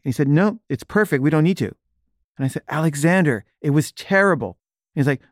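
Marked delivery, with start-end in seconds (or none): 0.3-1.7 high, breezy brush-off; retold cheerful refusal, pitched up; dismissive reassurance. Director brushes off the protest. 2.7-4.6 high, pleading complaint; retold dismay at one's own bad work; exasperated protest. Actor argues with director.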